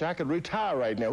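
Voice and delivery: high, insistent plea; rising plea. Retold or imitated. Fighter insisting to the voice, high plea.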